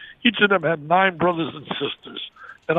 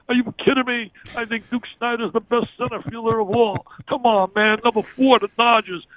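higher-pitched mock outburst of an arguing uncle; retold scream, only partly raised; retold mock yell; 4 semitones higher than usual. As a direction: argue it hotly like a fanatical sports fan. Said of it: "my Uncle Tom would scream".

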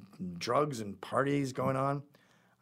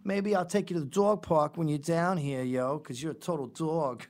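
mock street slang; 4 semitones higher than usual. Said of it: "So she's like".

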